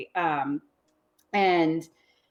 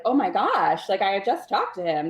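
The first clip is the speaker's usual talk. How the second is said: mock shock, pitched up and a little louder; fake shocked; 2 semitones higher, 4 dB louder than usual. Salesman feigning surprise at the widow's news, fake shocked. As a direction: play up a phony gasp of disbelief. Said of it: "he's like, all fake shocked".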